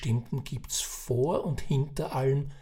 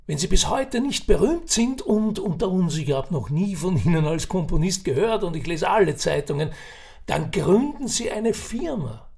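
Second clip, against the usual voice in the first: put-on raised, chatty old Viennese man; old café gossip; 5 semitones higher, 4 dB louder than usual. Old man sizing up Ferdinand at the café, chatty. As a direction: spin the yarn like a knowing old uncle.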